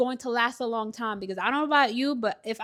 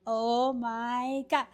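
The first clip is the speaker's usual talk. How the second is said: awed; 4 dB quieter, much slower than usual. Real, not acted. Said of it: "I'm so happy".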